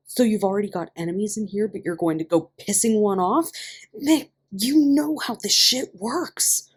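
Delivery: panicked rambling. A narrator's reading. Ian panicking at Mickey about prison enemies. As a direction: spill it out in a worried rush. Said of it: "started rambling nonsense".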